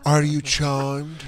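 vampire seducer. Retold or imitated.

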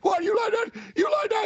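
high shouted taunt at a fan. Retold or imitated. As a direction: yell it right in the kid's face. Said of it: "He's like".

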